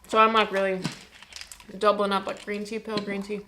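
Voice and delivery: chewing while talking; mouth full. Real, not acted. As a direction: talk through a mouthful. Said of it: "Sorry, I'm chewing with my mouth full".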